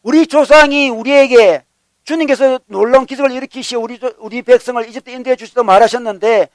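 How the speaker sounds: imitating a grievance against God; resentful complaint. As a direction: press the questions like a grumbler. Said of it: "원망하는 겁니다".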